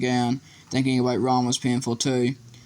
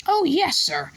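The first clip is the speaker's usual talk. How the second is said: high, eager house elf; earnest and squeaky; slower than usual. A narrator's reading. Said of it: "said Dobby earnestly".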